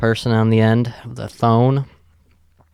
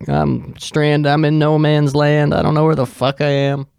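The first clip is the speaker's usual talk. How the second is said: mock distraught wail, pitched higher; retold bawling; 5 semitones higher than usual. Stranded woman at the hotel desk, mock bawling. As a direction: imitate someone stranded and shaking with fear. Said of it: "she's bawling her eyes out".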